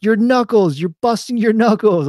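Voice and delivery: high, loud alarmed warning; imitated yelling. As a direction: call it out urgently, imitating a coach. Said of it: "he just immediately yelled".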